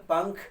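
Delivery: पंख said with the nasal as अंग, pankh; पंख with ng, not n; anusvar as ang. Shown as a demonstration. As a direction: read पंख with an ang sound before kh. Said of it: "अंग type का लगता है".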